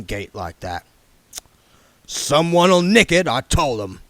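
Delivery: put-on the king sizing up the young man; Harry King voice. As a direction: voice the shrewd old yard boss sizing him up.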